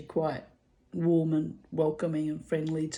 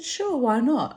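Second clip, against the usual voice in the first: quoted reply; 7 semitones higher, 5 dB louder, slower than usual. Retold or imitated. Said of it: "I said".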